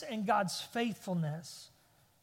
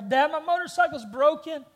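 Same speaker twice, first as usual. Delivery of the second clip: higher, louder imitation of an upset son; mock a kid's hysterical wail; retold tearful outburst, pitched up and loud; hysterical child; 6 semitones higher, 7 dB louder than usual. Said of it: "he's just hysterical".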